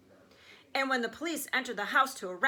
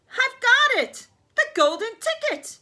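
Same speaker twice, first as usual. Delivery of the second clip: loud, much higher triumphant cry; excited yell; 13 semitones higher, 8 dB louder than usual. Acted. Worker yells to her boss, high and loud. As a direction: shout the find out with joy. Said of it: "yelled out".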